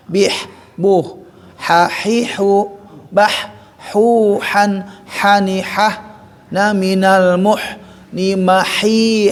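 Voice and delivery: chanted ha hi hu syllables; letter drill. Shown as a demonstration. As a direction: drill "ha, hi, hu" from the throat. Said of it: "dilatih-latih terus".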